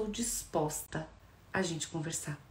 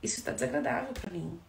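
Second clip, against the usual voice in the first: calm I-statement; 4 dB quieter than usual. Shown as a demonstration. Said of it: "Quando eu digo".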